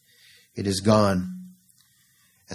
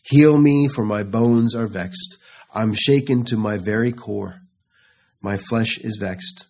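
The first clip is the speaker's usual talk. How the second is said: mild pleading cry. Acted. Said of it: "what David is crying here unto".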